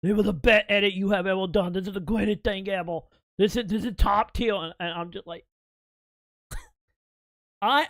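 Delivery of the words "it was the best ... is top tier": retold, loud gushing Timmy; hammed-up overexcited friend; excited imitation. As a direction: gush over the edit like it's a masterpiece. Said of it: "Timmy lost his fucking shit".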